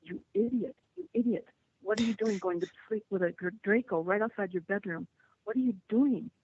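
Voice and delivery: berating herself for going back to sleep; self-scolding. Retold or imitated. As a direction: chide yourself for being foolish. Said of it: "scolding myself and going".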